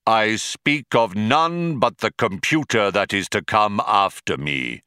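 grand, declamatory pronouncement; intoned. A narrator's reading. Deep Thought foretells the next computer, solemnly intoned. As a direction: intone it like a prophecy. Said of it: "intoned Deep Thought".

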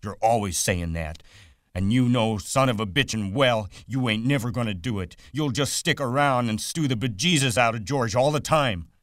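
Aunt Clara scolding Lenny, lightly voiced and nagging. A narrator's reading. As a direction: nag him like a fed-up aunt.

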